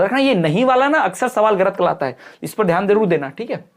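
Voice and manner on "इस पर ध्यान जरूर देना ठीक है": ordinary delivery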